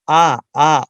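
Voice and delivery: آ held as an open long vowel; letter sound demo. Shown as a demonstration. Teacher sounds out the letter for students, open vowel. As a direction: sound out آ clearly on its own. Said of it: "پہلے ہے آ".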